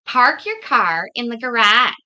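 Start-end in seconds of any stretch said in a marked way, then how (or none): 1.1-1.9 "garage" with a short front "a"; own pronunciation. Shown as a demonstration. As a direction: say "garage" as "guh-RADGE", r pronounced. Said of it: "is sort of how I would say it".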